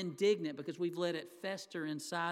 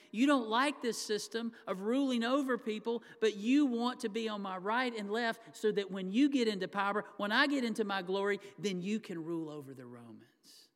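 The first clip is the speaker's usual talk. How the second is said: impassioned preaching; 3 semitones higher, 4 dB louder than usual. Real, not acted. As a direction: preach it at full force. Preacher pressing the point hard.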